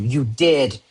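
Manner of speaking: "did" firmly punched; insist, landing hard on "did"; short statement leaning on "did"; stress on did. Shown as a demonstration. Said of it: "we're putting emphasis on that".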